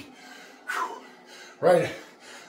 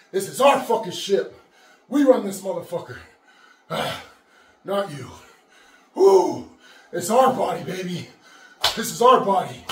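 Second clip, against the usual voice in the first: pumped-up hype; 5 semitones higher than usual. Real, not acted. Hyping himself mid-workout.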